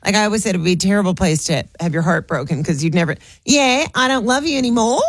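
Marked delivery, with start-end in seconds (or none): 3.4-5.0 a breakup line ending on a question lift; Australian uptalk. Retold or imitated. Mocking Australian breakup talk, lifted up. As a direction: let anymore float up like a question. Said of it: "they go up at the end of a sentence".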